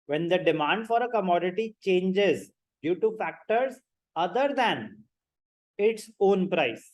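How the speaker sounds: very slow, measured definition read-out; spaced-out phrases at note-taking speed; dictation. Acted. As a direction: dictate it slowly for students taking notes.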